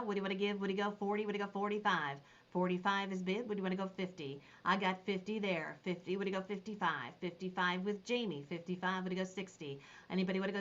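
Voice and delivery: quick, rhythmic auction patter repeating the bid; auctioneer call. Acted. Auctioneer calling bids to the Facebook viewers, quick rhythmic patter.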